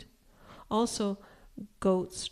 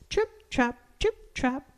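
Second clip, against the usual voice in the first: high, crisp trip-trap; evenly spaced high hoof taps; middle goat's hoofsteps; 6 semitones higher than usual. A narrator's reading. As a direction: tap out the words in a high voice. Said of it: "went his hooves".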